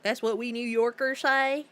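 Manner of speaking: put-on accidental country accent. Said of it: "say it with a country accent".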